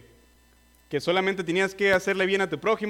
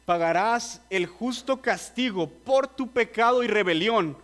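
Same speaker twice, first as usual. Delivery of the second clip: fervent preaching. Acted. Preacher warning the unbeliever of judgment, fervent. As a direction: press the warning home word by word.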